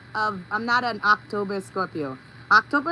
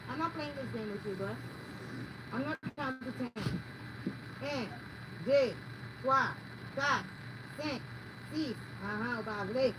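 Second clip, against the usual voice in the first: off-mic scolding; 13 dB quieter than usual. Real, not acted. Telling off pet, counting.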